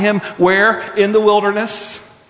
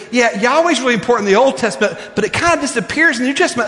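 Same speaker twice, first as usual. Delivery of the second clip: quoting the professor; 6 semitones higher, much faster than usual. Retold or imitated. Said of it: "looked at me and said".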